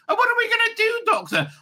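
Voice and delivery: high-pitched companion asking the Doctor; worried companion. Acted. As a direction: start high, drop down on the question. Companion questioning the Doctor in sketch.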